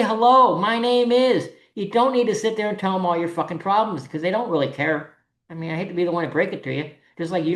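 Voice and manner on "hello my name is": polite, pleasant hello, pitched up a little; friendly greeting demo. Shown as a demonstration. Showing attendees how to greet organizers, politely. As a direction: greet them simply and nicely. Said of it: "just be nice".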